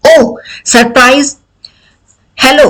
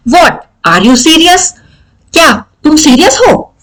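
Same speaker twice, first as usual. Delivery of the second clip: surprised reading; 3 semitones higher than usual. Shown as a demonstration. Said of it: "What expresses surprise".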